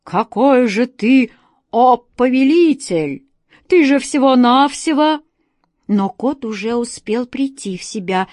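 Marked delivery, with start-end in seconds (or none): 0.0-5.2 slow, loud outraged roar; roaring genie. A narrator's reading. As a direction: bellow in outrage at the cat. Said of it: "взревел от негодования".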